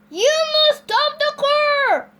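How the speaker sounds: high, loud, slow command; shouted order. A narrator's reading. Officer orders Mister Watson to stop, high slow shout. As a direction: shout each word at the driver. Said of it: "shouted Officer Tom Lalo".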